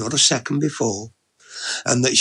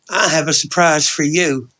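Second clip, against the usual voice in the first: higher, louder woman's character voice; Ellie Mae, playful; 4 semitones higher, 5 dB louder than usual. Acted. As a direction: promise a treat, playfully. Woman announces a surprise.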